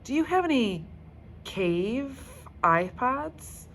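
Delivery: high, eager smarty-pants voice; know-it-all girl. Acted. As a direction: show off with the question. Jessica asks the guide.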